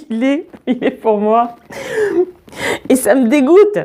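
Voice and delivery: put-on plaintive high child voice; tearful child. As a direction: whine it out like an upset child. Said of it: "en pleurant à gros bouillons".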